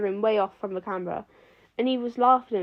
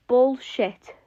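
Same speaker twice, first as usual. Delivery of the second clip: louder frustrated outburst; 3 semitones higher, 6 dB louder than usual. A narrator's reading. Flash bursting out at the class in loud frustration. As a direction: blurt it out in frustration. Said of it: "loud and frustrated".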